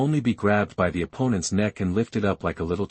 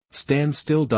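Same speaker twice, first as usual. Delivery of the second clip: stern command; 6 semitones higher than usual. Acted. Scolding while spanking the girl.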